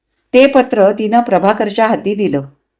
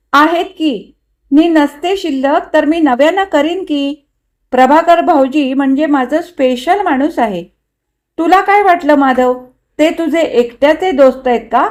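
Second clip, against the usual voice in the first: higher, lilting teasing; playful boasting; 6 semitones higher than usual. Acted. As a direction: tease the husband in a raised, eager pitch. Wife playfully claims husband's friend. (लाडिक, चिडवणाऱ्या सुरात)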